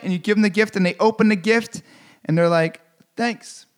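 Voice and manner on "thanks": a flat, soft, barely bothered "Thanks."; underwhelmed thanks. Retold or imitated. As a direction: mumble the thanks like the gift means nothing. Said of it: "The most underwhelming thank you".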